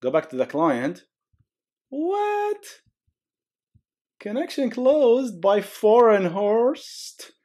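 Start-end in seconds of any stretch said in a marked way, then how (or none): 1.9-2.6 squeaky, very high startled What; shocked what. Acted. Server killed, client reacts. 4.2-7.3 very high, slow, drawn-out announcement; dramatic reading. Acted. Reads terminal message dramatically.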